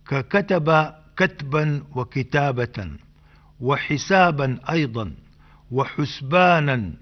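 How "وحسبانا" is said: وحسبانا said husbanan, with a damma on the first letter; وحسبانا as wa-husbanan, careful teaching voice. Shown as a demonstration. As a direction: say وحسبانا with a clear u after the ḥ. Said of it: "بضم الحاء".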